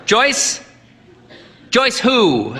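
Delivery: high, booming, puzzled; puzzled old priest. A narrator's reading. Deaf priest puzzled by the unknown name. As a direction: boom back a baffled question. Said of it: "asked the priest".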